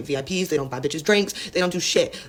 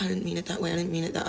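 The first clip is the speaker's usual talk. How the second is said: apologetic; 5 dB quieter than usual. Retold or imitated. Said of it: "got all apologetic and was like".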